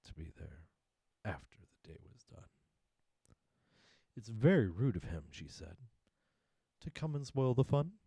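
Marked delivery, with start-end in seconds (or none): 4.2-5.3 high, loud, sulky moon voice; loud complaining moon. Acted. 6.8-8.0 high, loud, sulky moon voice; loud complaining moon. Acted.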